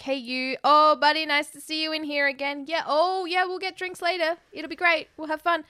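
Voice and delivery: breezy impression of a club host. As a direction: lightly play the host greeting regulars. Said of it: "she's like a host".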